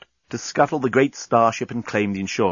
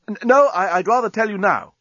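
frightened stammer; 10 semitones higher, 4 dB louder than usual. A narrator's reading.

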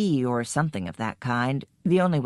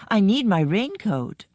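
a touch of panic, higher; panicky; 5 semitones higher than usual. Acted. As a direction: blurt it in rising panic. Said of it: "I said in a kind of panic".

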